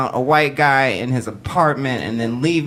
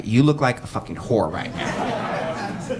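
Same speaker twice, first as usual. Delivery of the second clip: grandma scolding; 5 semitones lower, 6 dB quieter, slower than usual. Retold or imitated. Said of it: "Grandma would be like".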